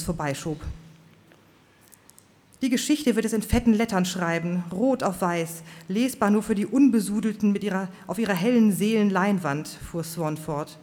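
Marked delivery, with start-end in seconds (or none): 2.6-9.7 fiery preacher. Acted. Preacher Swan's fiery speech.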